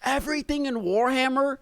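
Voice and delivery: very high, giddy disbelief; overwhelmed excitement. Real, not acted. Fan reacting to Warhammer's aura, giddily overwhelmed. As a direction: squeak it out, overcome with fan excitement.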